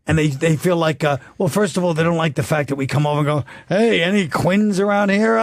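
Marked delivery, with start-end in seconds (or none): 3.7-5.4 mock tourist calling out, slow and higher; lightly played visitor hailing the locals, drawn out; hearty tourist impression. Mimics Irish-American visitors arriving in Ireland.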